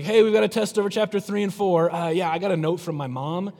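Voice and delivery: put-on high, loud whiny kid pleading with teacher; mock student excuse. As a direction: play a student begging out of a test.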